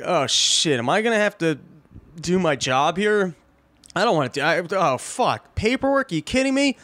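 a put-upon cop dreading paperwork, pitch leaping up at the end; whiny lazy cop. Retold or imitated. Lazy cop voiced in story.

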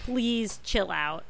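drawn-out, tired please chill out; slow, weary, half-pleading; slow, exasperated plea. Retold or imitated. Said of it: "I was like".

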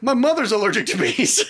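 laughing protest. Retold or imitated. Telling friends he protested about his mother, laughing. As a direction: insist while laughing. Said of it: "I was like".

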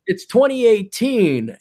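slow, flat robotic NPC delivery. Retold or imitated. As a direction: recite it like a programmed NPC. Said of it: "So they put one over it".

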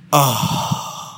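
breathy demo moan; a quick demo of the moan wanted; demo moan sound. Shown as a demonstration. Caller demonstrating the moan to the actor. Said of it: "you have to say".

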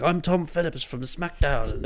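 slow booming announcer voice. Retold or imitated. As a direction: boom it out like a host. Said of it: "he booms out".

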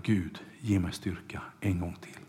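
an unvoiced, pleading whisper; whispered prayer. Samson begging God for strength one last time, whispered. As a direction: breathe the plea to God, barely voiced.

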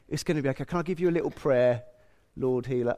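soft, soothing bedside nurse; Florence Nightingale. Pretend. Imagined nurse offering a sick woman prayer, mock-soothing. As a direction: murmur gentle comfort, gently mocking a mild healer. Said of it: "like a bit of a Florence Nightingale".

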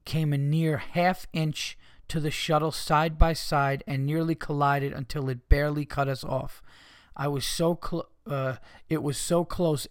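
deliberate read-aloud of an email; reading listener mail. Acted. Host reading how the bus nearly collided, deliberate reading. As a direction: read it out phrase by phrase.

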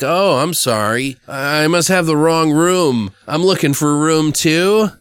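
mock apologetic line reading; Brian Posehn. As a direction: imitate a bad actor politely excusing himself, rising ends. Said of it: "the way that Brian Posehn says it".

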